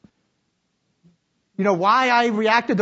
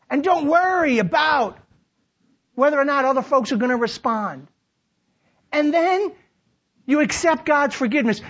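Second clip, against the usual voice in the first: high, driving sermon delivery; rousing, declamatory preacher; full-force preaching; 7 semitones higher than usual. Real, not acted. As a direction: preach it out to the whole room.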